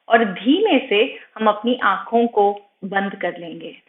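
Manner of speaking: slightly softened meditation voice with long pauses; guided meditation. Acted. Yoga teacher guiding students' attention from toes upward, calm meditation voice. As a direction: guide attention gently through the body, unhurried.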